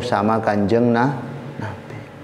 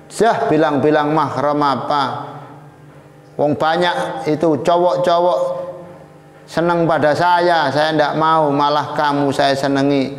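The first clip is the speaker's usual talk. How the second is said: raised-pitch, indignant acted protest; scornful retort; 5 semitones higher than usual. Princess dismissing the young man's objection, indignant. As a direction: brush the objection aside impatiently.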